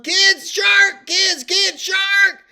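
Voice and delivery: high, loud cries of warning; panicked yelling. Retold or imitated. Mother running for shore warning her kids, panicked yelling. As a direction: scream to get the children out, word by word.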